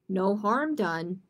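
slow, measured reassurance; mildly stout-hearted; brave. Acted. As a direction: say it bravely, unhurried. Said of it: "said Rabbit bravely".

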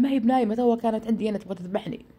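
insistent protest. Retold or imitated. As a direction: argue back, lightly agitated. Nephew argues back after attack. (اعتراض بإصرار ونبرة مرتفعة)

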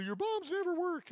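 high, yelled taunt at brother; childish yell of frustration; retold yell. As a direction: shout it at your little brother. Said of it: "I yelled at my brother".

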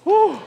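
high, loud whoo; celebratory whoop. Real, not acted. Coach relieved the workout is done, whooping. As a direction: let out a victory whoop.

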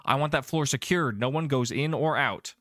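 lightly voiced order over the radio; commanding radio voice. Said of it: "there's a voice that comes on, on the radio".

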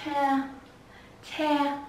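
"Te" as the stressed first syllable; nhấn âm đầu. Shown as a demonstration. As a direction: model "Te" on its own, held firm. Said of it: "Chúng ta nhớ mạnh âm đầu". (đọc riêng "Te" làm âm nhấn)

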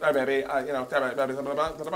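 Vince Vaughn voice. Retold or imitated. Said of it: "Like Vince was always like".

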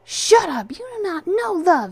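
high, loud angry outburst; wounded, defensive shouting. A narrator's reading. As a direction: snap back loudly, voice leaping up. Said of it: "he said defensively".

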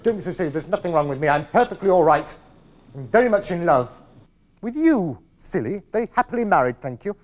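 put-upon protest with loud emphatic bursts; indignant denial. Acted. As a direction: insist indignantly that all is fine. Mother indignantly denies trouble.

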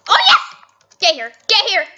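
high, loud triumphant shouting; excited yell. Real, not acted. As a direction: cheer as you give chase. Chasing the killer excitedly.

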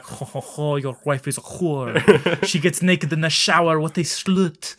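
lightly put-on mocking hedge voice; a talking hedge sneering at the neighbor; voiced taunting hedge. Hedge taunting the neighbor about his wife, mock sneer. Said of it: "It's like".

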